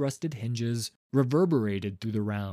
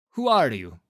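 louder, sharp demand into the dark; startled challenge; 2 semitones higher, 7 dB louder than usual. A narrator's reading. Director calling out to the stranger, loud. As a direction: call out to the shadowy figure.

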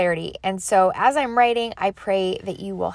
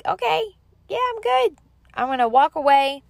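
high, light mock relief, far higher than her usual voice; relieved self-talk; 8 semitones higher than usual. Imitating herself walking away from her journal, high and relieved. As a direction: float the line up high like a weight just lifted.

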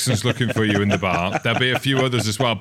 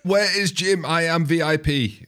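put-on much higher French-accented parody; mock French accent; 7 semitones higher than usual. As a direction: echo the coach in a hammy French accent. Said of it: "why we speak like that".

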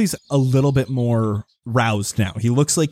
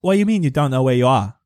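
put-on lightly British-accented, quick puzzled villager; British-sounding villager; 3 semitones higher, faster than usual. Farmer questions lost strangers, lightly British-accented and puzzled. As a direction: fire back in a mild British rustic accent. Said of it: "Your accent is, like, British".

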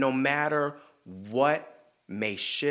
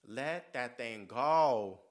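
slow emphatic advice; much slower than usual. Acted. Advising viewer, slowed emphasis.

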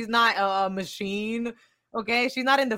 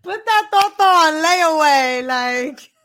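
excited; 7 semitones higher, 9 dB louder, slower than usual. Real, not acted. Joking about payment plan.

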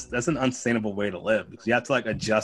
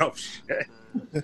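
whispered oh shit; 4 semitones higher, 6 dB quieter than usual. Retold or imitated. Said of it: "And I was like".

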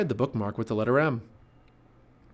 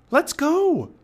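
very high, loud urgent cry; Annie crying out; 7 dB louder than usual. A narrator's reading. Girl urging the boy to leave the storm, crying out high. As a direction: urge him along in a high shout. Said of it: "cried Annie".

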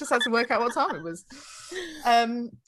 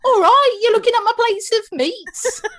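higher, louder hammed-up Mary Poppins Cockney; mock Cockney accent; 11 semitones higher, 7 dB louder than usual. Playing Dick Van Dyke's Cockney for the guide, Cockney accent. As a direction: ham up a bad Cockney accent, laughing.

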